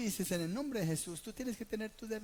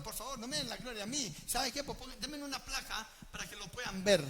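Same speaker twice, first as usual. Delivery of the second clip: mock vain believer; 4 semitones higher than usual. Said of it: "No puedo decir como un Gedeón".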